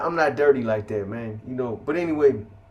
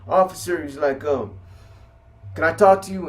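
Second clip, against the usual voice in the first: raised, high call to the guard; calling out urgently; 3 semitones higher, 4 dB louder than usual. Retold or imitated. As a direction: call the officer over, urgently. Cellmate calls the officer urgently.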